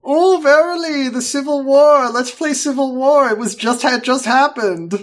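put-on high, loud old-timey theatrics; hammy stage actor. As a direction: ham it up like a Shakespearean. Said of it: "they were like".

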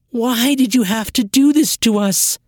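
high, loud pained question; anguished reproach. Acted. Sister reproaches Trin, high and loud with pain. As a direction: demand why she did it.

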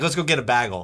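"bagel" said with short a, "baggle"; variant pronunciation. Retold or imitated. Imitating people who say it wrong, "bagel" as "baggle". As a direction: rhyme "bagel" with haggle. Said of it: "some people say bagel".

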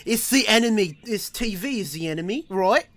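put-on, amateur Australian accent; mock Australian accent. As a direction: talk like a badly imitated Australian. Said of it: "I can't do an Australian accent".

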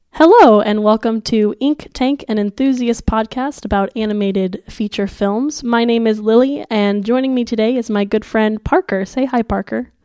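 muffled voice with a sore throat; sick voice. Real, not acted. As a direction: talk like your throat is swollen and sore. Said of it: "if it sounds like I have cotton balls in my mouth".

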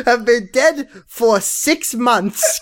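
slow, lightly British Jewish mum; a hint of a posh Jewish mother; Jewish mother with British accent. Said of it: "Jewish mother voice".

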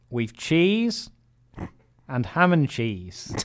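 half-hearted Irish barman, drawn out; tentative Irish accent. Retold or imitated. Barman listing toasted sandwiches, tentative Irish accent. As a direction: slowly list the menu in a hesitant Irish accent. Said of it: "Is that your Irish accent, by the way?".

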